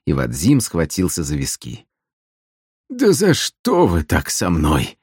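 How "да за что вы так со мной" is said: moaning. Acted. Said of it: "простонал он".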